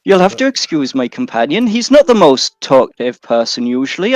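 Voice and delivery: put-on lilting Welsh accent. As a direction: speak with a Welsh lilt. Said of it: "the best Welsh accent you've done so far".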